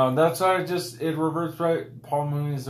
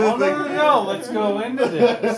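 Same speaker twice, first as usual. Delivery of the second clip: frantic no; 12 semitones higher, 6 dB louder than usual. Real, not acted. Protesting being pushed into debate.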